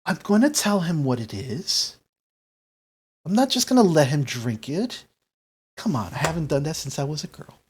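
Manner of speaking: mildly protesting, swooping intonation; defensive grandmother. Acted. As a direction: brush off the scolding as Gram. Game master plays defensive Gram.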